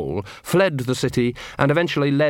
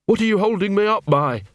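higher, panicked dog voice; a dangling dog demanding answers; frightened poodle; 9 semitones higher than usual. Acted. Big Fido asks Gaspode what holds him, higher and panicked.

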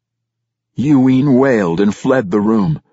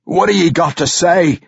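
growling king; 10 semitones higher, 4 dB louder than usual. A narrator's reading. King growling at Brunner, mocking his name. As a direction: taunt him with his name.

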